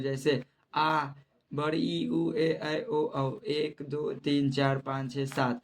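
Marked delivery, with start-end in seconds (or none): 0.0-1.1 "आ" stretched out very slowly; long vowel demo. Shown as a demonstration. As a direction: hold "आ" long to show a long vowel. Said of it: "अधिक समय लगता है". ("आ" को बहुत खींचकर बोलना)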